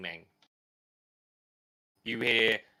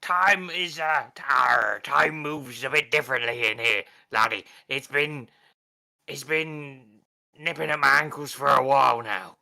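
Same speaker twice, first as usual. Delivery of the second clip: pirate voice; 5 dB louder than usual. Acted. Pirate Murray speaks to Frank.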